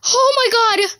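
loud laughing "oh my god"; laughing exclamation. Real, not acted. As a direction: burst out laughing in disbelief.

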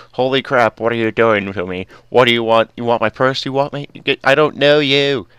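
loud, frantic, freaked-out mob voice; panicked Enderman. Acted. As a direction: shout it like a monster in sudden panic. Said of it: "That's when he goes".

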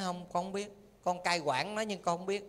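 softly voiced, humble answer; lightly acted, subdued reply; humble admission. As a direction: admit it quietly, as a junior to a master. Voices Dragon King's humble answer.

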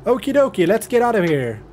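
high, bright sing-song okay; cheery okie dokie. Real, not acted. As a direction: chirp it out happily.

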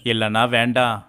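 plain reading voice

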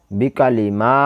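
short বিকালি, then a long মা; only mim elongated. Shown as a demonstration. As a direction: hold only the vowel of মা in বিকালি মা. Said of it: "মিমটা টান হবে".

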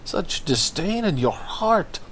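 lightly voiced suave Spanish lover, lingering; mock Spanish accent. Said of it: "he's like".

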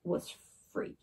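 soft whisper; hushed whisper. A narrator's reading. Narrator whispering that the boy is free, soft. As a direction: breathe the ending. Ending, triumphant hush.

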